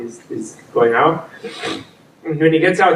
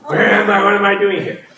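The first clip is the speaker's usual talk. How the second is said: dazed Admiral Stockwell; 5 semitones higher than usual. Retold or imitated. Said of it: "Like Admiral Stockwell".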